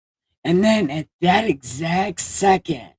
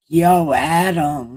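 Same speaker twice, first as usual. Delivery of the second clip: a louder casual "Yo, Adam" call; mock holler; 6 dB louder than usual. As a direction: call out across the garden. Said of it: "God starts hollering for Adam".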